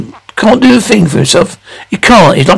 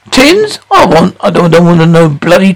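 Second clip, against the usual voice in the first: pitched way up, incredulous at the offer; scornful disbelief. Acted. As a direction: spit the word back like an insult. Father disgusted at offer of tins.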